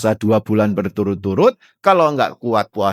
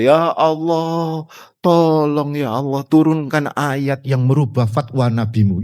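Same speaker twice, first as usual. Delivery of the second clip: praying plea; 2 semitones higher than usual. Retold or imitated. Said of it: "berdoa menengadahkan tangan ke langit".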